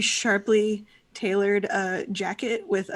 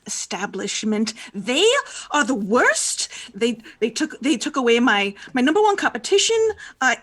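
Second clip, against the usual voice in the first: annoyed rant; 2 semitones higher than usual. Acted. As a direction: get more worked up with every line. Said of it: "Marimorn looks around and goes".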